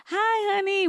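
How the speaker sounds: acted sweet wifely greeting. Greets husband in retold scene.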